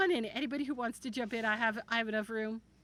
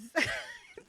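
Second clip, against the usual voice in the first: short high giggle; laugh. Real, not acted. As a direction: let a quick giggle slip out. Reacting to misread gifter name.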